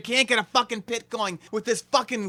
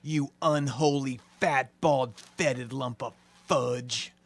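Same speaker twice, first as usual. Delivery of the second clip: low slow contempt; 9 semitones lower, 6 dB quieter, slower than usual. Acted. Low slow string of insults.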